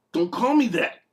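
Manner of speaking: high-pitched exasperated objection; hammed-up high protest; protesting demon. Nicknamed demon protests in acted skit.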